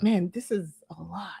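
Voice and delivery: half-whispered retold reaction; soft, whispery disbelief; hushed aside. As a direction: drop to a whisper, as if thinking it.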